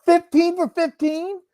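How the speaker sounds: high, loud incredulous question; can't believe the number; real shock, voice jumping way up; stunned disbelief. Real, not acted. Repeats in disbelief.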